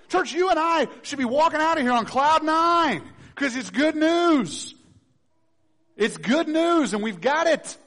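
loud, high, fervent preaching; preaching at full force. Acted. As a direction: shout the good news with joy.

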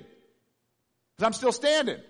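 very slow, loud, drawn-out standing; slowed emphatic repeat. Real, not acted. To the congregation, repeating slowly for weight. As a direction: stretch every word for weight.

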